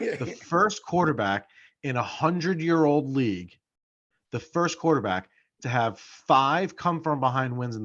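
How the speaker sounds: slowed right down, each phrase weighed; slow emphatic repeat. Shown as a demonstration. Repeating the stat to his co-hosts, slow and weighty. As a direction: spell the record out slowly to the listeners. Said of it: "I'm gonna say it one more time".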